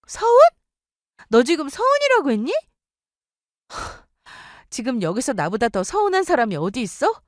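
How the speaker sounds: high, incredulous, rising anger; furious wife. Acted. Wife yells at her husband for siding with his mother. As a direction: tear into him.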